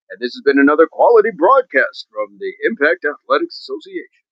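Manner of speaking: hint of a TV announcer closing the show; announcer sign-off. Shown as a demonstration. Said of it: "That's how I picture it being said".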